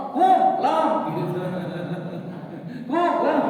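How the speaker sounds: high loud squeaky "Kum, lam"; mocking lazy "Kum, lam" with a laugh; clipped salam. Shown as a demonstration. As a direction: chirp the chopped-off salam. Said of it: "Nanti lama-lama".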